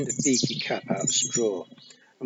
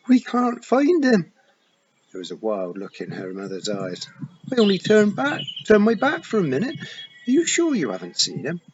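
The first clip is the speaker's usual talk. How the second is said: loud, higher desperate pleading; a mother on the edge of tears; frantic mother searching for Wentworth; panicked mother; 11 semitones higher, 8 dB louder than usual. Acted. Mother panicking over lost child.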